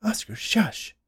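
high-pitched wifely scolding. A narrator's reading. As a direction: hush your husband sharply in a high voice. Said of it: "Dolores scolded".

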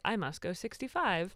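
flat robotic monotone. Pretend. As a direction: speak like a robotic car. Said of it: "that's my robotic car voice".

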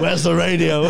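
cracking up while playing mum; laughing mock mum. Mocking mum's nagging.

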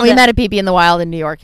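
excited. Real, not acted. Echoing excitedly.

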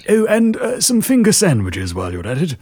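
put-on quavering elderly lady voice; old woman asking sweetly. Old lady role again.

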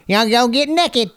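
slow, high mock Southern drawl; hammed-up Southern accent, slow and high. Imitating his dad's talk, exaggerated Southern accent. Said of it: "more of a Southern thing".

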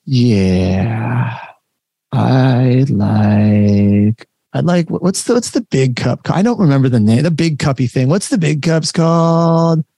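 dragged-out, hesitant ordering; slow, halting customer. Retold or imitated. Playing the slow customer to a fast barista, drawn out. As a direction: stall and fumble like you can't find the word. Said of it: "you talk slow".

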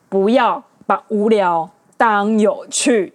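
不要把无聊当有趣 said slowly, each word pressed; slow emphatic. Shown as a demonstration. The host driving home the episode's lesson, slow and emphatic. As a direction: spell out 不要把无聊当有趣 slowly with weight on 要. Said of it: "真的不要把无聊当有趣".

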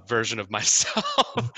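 real laugh breaking into the words; giggling. Real, not acted. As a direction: let a giggle burst through mid-phrase. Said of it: "for giggling".

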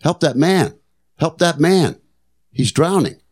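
high-pitched mock yell for help; imitating wife's scream. Wife calling beachgoers to help drowning man, high mock yell. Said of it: "my wife starts screaming to the people".

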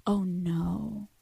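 breathy realizing whisper. Pretend. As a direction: whisper it as it dawns on you.

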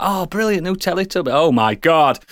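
high-pitched gushing reaction; excited onlookers. Acted. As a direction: act out a thrilled audience turning aghast. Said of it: "it's gonna people like".

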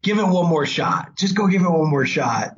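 retold plea, pitch climbing; begging. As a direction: coax and implore. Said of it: "begging her".

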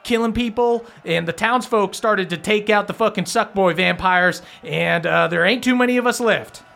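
high-pitched, rattled vampire henchman; agitated Langston. Acted. Langston briefs his ally on the townsfolk revolt, agitated high voice. Game master plays Langston.

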